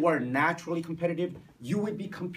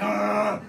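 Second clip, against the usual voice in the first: groan; 5 semitones higher, 7 dB louder than usual. Acted. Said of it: "You're like".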